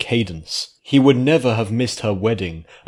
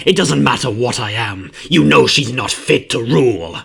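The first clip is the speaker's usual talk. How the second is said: louder, higher creature voice, urging; changeling voice; 4 semitones higher, 6 dB louder than usual. A narrator's reading. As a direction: win back his old allies. Changeling pleads with nobles.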